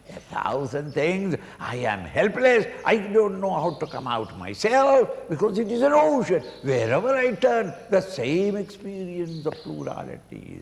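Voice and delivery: a desperate call for rescue from the water; pleading devotee. Acted. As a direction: beg the Guru like a drowning man. Devotee's acted plea to the Guru.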